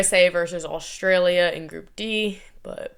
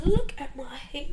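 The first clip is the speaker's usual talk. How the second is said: self-admiring aside; 6 semitones higher than usual. Retold or imitated. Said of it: "and I'm like".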